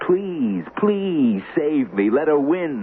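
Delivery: slow, whiny mock of his begging; mocking imitation. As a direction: parrot his plea back to mock him. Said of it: "You said".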